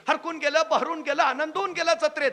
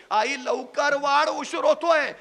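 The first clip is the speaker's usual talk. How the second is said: put-on insistent child; 3 semitones higher, 6 dB louder, slower than usual. Boy urging, slowed and drawn out.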